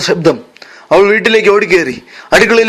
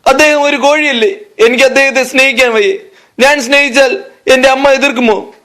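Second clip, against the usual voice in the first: put-on higher, anxious pleading of a lovesick girl; distressed young hen; 4 semitones higher than usual. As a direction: fret aloud like a torn young heroine. Heroine's anguished inner monologue. (ആശങ്കയോടെ വിലപിക്കുന്ന നായിക)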